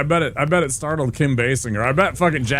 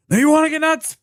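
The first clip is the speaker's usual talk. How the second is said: Batman impression; 6 dB louder, faster than usual. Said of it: "he's like".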